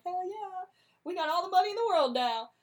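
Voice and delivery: high, hyped cheer; a loud high gleeful cheer; celebrating. Retold or imitated. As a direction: pump it up like a party bro. Bassanio celebrating.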